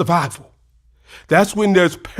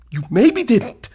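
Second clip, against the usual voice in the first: breathless whisper; whispered doubt; 4 semitones higher than usual. Acted. Husband admitting failure to his wife, whispered. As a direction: let the doubt slip out in a whisper.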